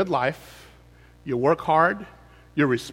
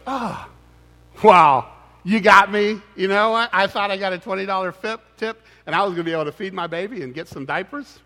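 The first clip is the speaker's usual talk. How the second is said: sarcastic waitress; 4 semitones higher, 3 dB louder than usual. Retold or imitated. Cheated waitress voiced sarcastically.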